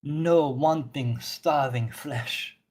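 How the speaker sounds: slow, measured proclamation in a lightly put-on voice; lightly voiced solemn zealot; stern zealot priestess, measured. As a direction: draw out each phrase with grave certainty. Plays NPC Orthelia.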